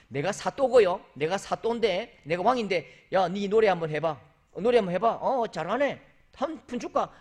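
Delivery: haughty magistrate. Retold or imitated. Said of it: "누구에게 노래시키듯".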